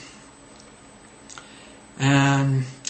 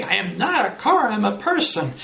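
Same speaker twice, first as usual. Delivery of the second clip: mock-indignant, pitched up; playful correction; 6 semitones higher, 3 dB louder than usual. Shown as a demonstration. Teacher jokingly corrects student, mock-indignant. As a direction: tease the student with humor. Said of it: "You might say".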